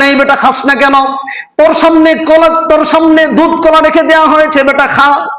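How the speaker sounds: preacher acting out a telling-off; mock scolding. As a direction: scold the idol as if it could hear. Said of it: "ধমক দিয়ে বলতেছেন".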